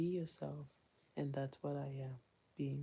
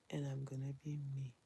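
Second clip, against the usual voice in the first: whisper; 5 dB quieter, faster than usual. Real, not acted. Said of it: "whispered repeat".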